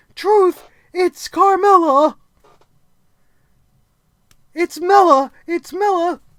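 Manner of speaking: very loud, shrill, high put-on woman's voice. Reviewer retelling a wrestling segment of talking into a box, in Jinder Mahal's high-pitched fake voice. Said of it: "in a high-pitched voice".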